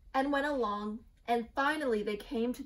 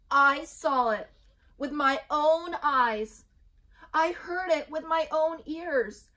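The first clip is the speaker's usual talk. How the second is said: high, loud, slow insistence; frantic little chick; 6 semitones higher, 9 dB louder, slower than usual. A narrator's reading. Chick convinces Cocky Locky, high and loud. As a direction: plead that you saw it yourself.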